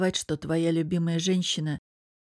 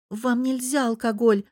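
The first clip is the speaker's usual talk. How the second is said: put-on higher, grumbling girl's voice; grumbling reproach; 5 semitones higher than usual. A narrator's reading. Nastya to Лев, grumbling reproach. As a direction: scold him mildly for the drink. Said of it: "нахмурившись, заворчала девушка".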